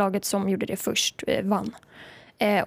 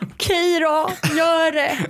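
reluctant okay; 6 semitones higher, slower than usual. Retold or imitated. Giving in to the coach.

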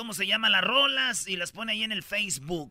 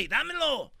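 high-pitched acted "hey!"; indignant demand; 5 semitones higher than usual. Godfather to priest taking the baby, mock indignant shout. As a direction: call out to grab the child back.

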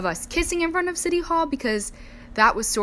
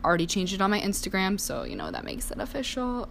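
mock influencer voice; 4 dB quieter than usual. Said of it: "I don't really talk like that".

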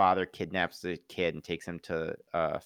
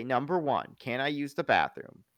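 lightly imitated smart-aleck kid, a bit higher; snarky kid; 4 semitones higher than usual. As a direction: count off questions like a cheeky kid. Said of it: "kinda kid snarky".

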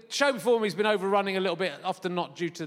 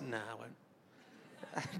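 mock taunt; 9 semitones lower, 19 dB quieter, much slower than usual.

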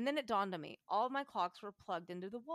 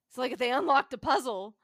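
much louder, bursting with enthusiasm; excited; 3 semitones higher, 11 dB louder than usual. Real, not acted. Host telling her co-host a story, real excitement, loud. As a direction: blurt it out, unable to contain the thrill. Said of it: "Sorry, I'm getting excited".

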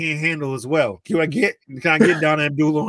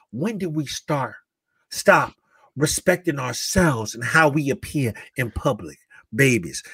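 lightly voiced motherly address, lower and measured; Monique; 4 semitones lower than usual. Monique talking to the ladies, lightly imitated in a low, measured voice. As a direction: address them like a concerned elder, low pitched. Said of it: "she was talking to the ladies".

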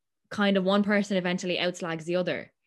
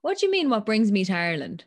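retold indignation; 2 semitones higher, 4 dB louder than usual. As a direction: re-enact being put out by the question. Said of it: "I got tick".

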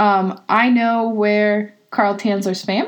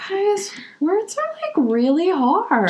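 mock exasperation; 9 semitones higher, slower than usual. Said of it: "She's having a rough".

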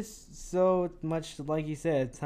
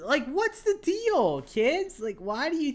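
exasperated; 10 semitones higher, slower than usual. Pretend. Scolding the mean cartoon kids.

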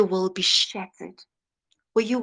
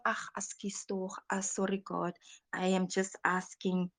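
meek, much softer mumbled apology; timid apology; 2 semitones lower, 11 dB quieter than usual. Pretend. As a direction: shrink back and apologise timidly. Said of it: "He doesn't want".

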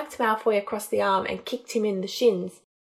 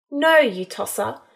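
sarcastic; 3 semitones higher, 4 dB louder than usual. Acted. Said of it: "she said with an eye roll".

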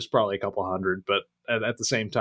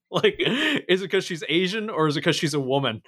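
teasing through laughter; 5 semitones higher than usual. Real, not acted.

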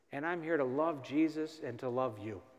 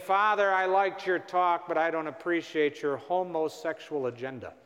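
mock disapproving complaint; 4 dB louder than usual. Angry woman objecting to the priest's talk, mock disapproval. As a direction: imitate an indignant parishioner's pointed complaint. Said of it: "which is how she said it".

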